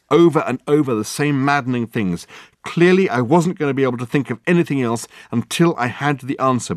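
pompous detective in full flow; grandiose detective. Acted. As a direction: expound your genius with relish.

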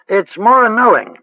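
lightly voiced rustic old witch; a hint of a cackly village crone, musing. A narrator's reading.

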